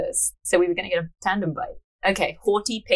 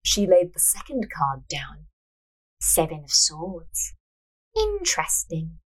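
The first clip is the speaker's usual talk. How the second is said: measured storyteller's reading; story narration; 4 semitones lower, slower than usual. A narrator's reading. Narrator reading a fortune-teller scene, measured narration. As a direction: read the tale aloud, unhurried.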